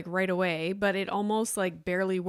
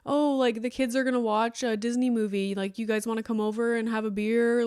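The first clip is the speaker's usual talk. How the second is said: cheerful friend's invite; 2 semitones higher than usual. Pretend. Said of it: "Or, like".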